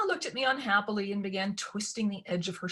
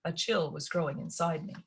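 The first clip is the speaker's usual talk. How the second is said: ordinary delivery, nothing marked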